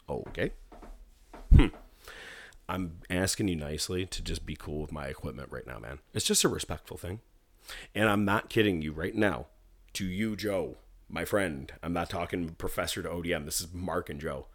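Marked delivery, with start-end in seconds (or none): 2.7-14.5 soft, firm, quiet tone; calm quiet warning. Retold or imitated. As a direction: keep it low and steady. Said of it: "This tone. This whisper".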